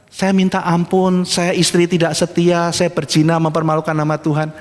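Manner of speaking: mock apology. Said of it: "Minta maaf kah".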